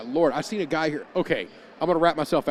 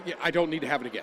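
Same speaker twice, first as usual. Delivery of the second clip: laughing; much faster than usual. Real, not acted. Repeats friend's line laughing.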